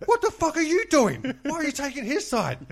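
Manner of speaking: high, shouted indignation; retold furious outburst. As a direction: imitate an irate husband yelling at his wife. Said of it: "just giving it to me".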